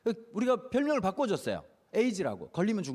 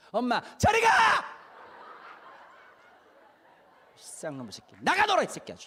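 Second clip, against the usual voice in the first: loud fed-up shout; angry mom yelling; 4 semitones higher, 4 dB louder than usual. Retold or imitated. Fed-up mother yelling at her nagging child. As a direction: bark at the kid to get out.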